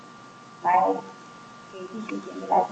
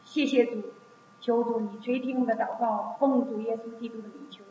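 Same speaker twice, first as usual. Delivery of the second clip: earnest, projected public prayer in measured phrases; 2 semitones higher, 4 dB louder than usual. Real, not acted. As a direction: lead the congregation in prayer, pleading phrase by phrase. Leads congregational prayer.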